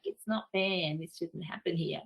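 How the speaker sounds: whingy, complaining tone; whiny voice. Shown as a demonstration. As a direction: whinge it out like a moaner. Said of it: "we get the whingy, whiny voice".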